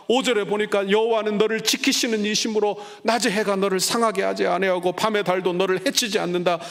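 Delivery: high, loud preaching of each verse; fervent scripture reading. Acted. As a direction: proclaim every verse with fire.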